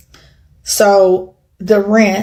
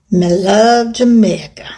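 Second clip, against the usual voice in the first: slow, badly done Jamaican patois; amateur Jamaican accent, drawn out; attempted Jamaican accent. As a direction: have a playful go at a Jamaican accent. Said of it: "My accent's horrible".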